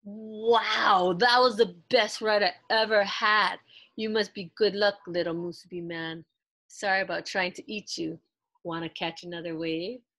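loud, delighted surfer after a great ride; thrilled surfer. Acted. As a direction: whoop it out, stoked.

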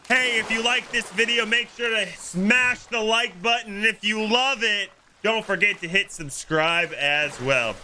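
upbeat YouTuber outro. Retold or imitated. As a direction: hype it like a YouTuber signing off. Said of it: "what do the YouTubers always say?".

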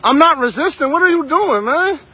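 loud, high, desperate protest; yelling that he's innocent; heated shouting. Real, not acted. Driver resisting arrest claim.

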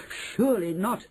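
high, disbelieving shout. Acted. Other witches doubt her, high shout. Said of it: "the others shouted".

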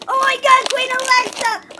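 loud, high, stretched-out exclamation; thrilled. Real, not acted. Kid revealing the last toy, thrilled. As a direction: cry it out, amazed and delighted.

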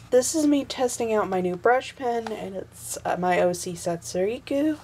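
hoarse, fading voice; losing her voice. Real, not acted. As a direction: talk with a voice that's going. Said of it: "I'm losing my voice again".

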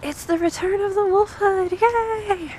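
high, celebratory announcement; excited announcement. Real, not acted. Announcing the wolf hood's return.

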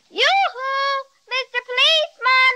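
high, carrying call across the sand; girl calling out to the policeman's back. Acted. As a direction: hail him from far down the beach. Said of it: "Louder, Judy".

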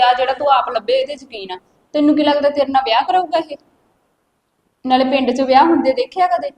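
loud, sharp rebuke; angry scolding. Acted. Sister-in-law loudly scolds the girl over the boy. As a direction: tear into her with the question.

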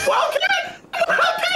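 high, urgent call to a teammate; high-pitched yelling for help. Real, not acted. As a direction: call his name across the map. Calling teammate urgently mid-fight.

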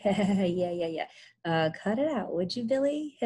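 uneasy little chuckles between words; nervous chuckling. Acted. Tom hugging himself before Billy pounces, nervous chuckling. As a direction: laugh it off weakly and nervously. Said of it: "chuckling nervously".

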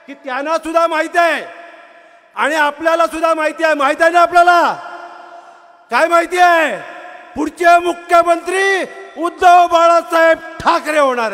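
rousing the crowd, loud; fiery rally speech. Real, not acted. Rally crowd call and response.

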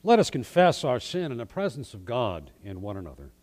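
solemn liturgical prayer voice. Acted.

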